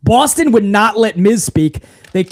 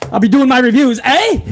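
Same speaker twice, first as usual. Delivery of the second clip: mock Canadian eh; 3 semitones higher than usual.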